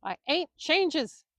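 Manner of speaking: slow, high, loud stumble of rage; preacher roaring at the trainer, slow and loud; roared. A narrator's reading. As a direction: bellow it out too furious to get the word right. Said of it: "Willie roared".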